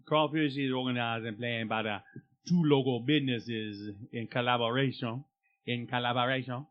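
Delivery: lightly voiced local radio promo; mock radio ad read. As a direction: read it like a small-town festival ad.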